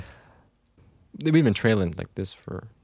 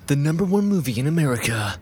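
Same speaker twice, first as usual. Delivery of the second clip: lightly voiced movie-ad announcer; mock trailer announcer; 3 semitones higher than usual. Host quoting favorite advert line, mock announcer style. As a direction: deliver it like a trailer tagline. Quotes film advert tagline.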